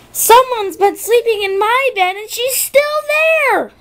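high little bear voice, calling out in alarm; a small cub crying out the news; Baby Bear exclaiming. Acted. Baby Bear spots Goldilocks in his bed, high and alarmed. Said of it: "exclaimed the Baby Bear".

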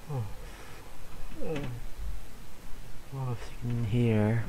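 talking through a yawn; tired words stretched by a real yawn. Real, not acted. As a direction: let a yawn swallow the words. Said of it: "yawning because I'm, I'm tired".

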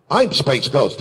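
lightly put-on superhero announcer; Space Ghost. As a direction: proudly announce yourself as a cartoon superhero. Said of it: "back and forth we do the".

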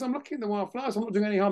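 lightly acted pleading excuse; retold protest. Narrator protests back to shouting boss.

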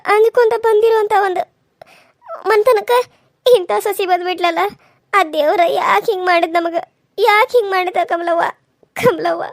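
slow, loud wailing complaint; loud lament. Acted. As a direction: bewail your fate to the neighbour. Mother laments to neighbour. (ನೆರೆಯವಳ ಮುಂದೆ ಜೋರಾಗಿ ನಿಧಾನ ಗೋಳಾಟ)

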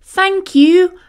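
high, loud grateful bee; overjoyed bee thanks the sheep, high and loud; buzzing thanks. A narrator's reading. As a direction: gush your thanks. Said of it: "Fuzby buzzed".

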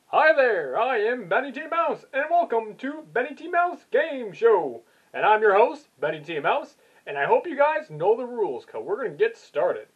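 lightly voiced game show host; Benny T Mouse.

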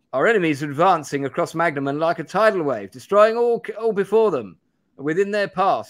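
put-on high-pitched, urgent young magician; Benedict Cumberbatch. Young magician briefing allies on the advancing enemy, Cumberbatch impression. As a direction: play a grave character, pitched well up. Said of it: "this is Benedict Cumberbatch playing this character".

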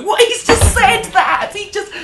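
high, loud, slow mock gasp of outrage; shocked audience. Mocking prudish British audience members, high scandalised gasp. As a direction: play the scandalised British punter. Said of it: "British people go".

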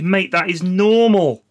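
slow "Mate, that is normal" with mock praise; mock slang praise. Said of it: "you could say".

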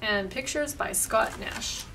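lively picture-book read-aloud with voiced lines; reading to children. A narrator's reading. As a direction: read it out brightly to a group of kids.

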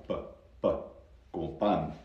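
"P" without any puff of air; dry "P", then Spanish "pan" with a pure a; Spanish unaspirated P. Shown as a demonstration. Teacher shows how some countries say it, dry airless "P". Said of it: "En algunos países sí, la P es así".

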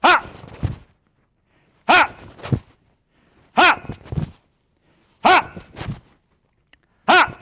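short, high, explosive "ha"; punchy kihap shout on each strike; martial arts yell. Shown as a demonstration. Instructor cueing the class to switch punches, yelling. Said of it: "So when I yell".

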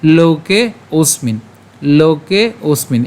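"লোকে অস্মিন" slowly, long vowels in লোকে; pronunciation demo. Shown as a demonstration. Teacher shows learners how "লোকে অস্মিন" sounds, slow demo. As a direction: say "লোকে অস্মিন" word by word, drawn out. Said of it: "উচ্চারণটি কেমন হচ্ছে".

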